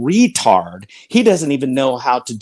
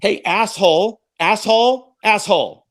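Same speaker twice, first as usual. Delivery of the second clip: angry taunt; 4 semitones higher than usual. Real, not acted. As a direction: taunt him, stretching each word. Heated insult in live debate.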